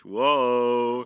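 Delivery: loud hammed-up whoa; exaggerated whoa. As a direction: play up the amazement. Mock amazement at dating apps.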